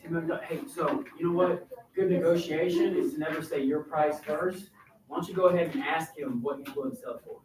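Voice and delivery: soft, low conspiratorial advice; hushed, low aside; whispered conversation. Acted. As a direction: confide it quietly like an adviser. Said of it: "having a whispered conversation here".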